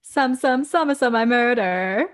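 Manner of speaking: attempted M.I.A.-style British accent. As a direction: do your best British accent, quoting lyrics. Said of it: "Give me your best British accent".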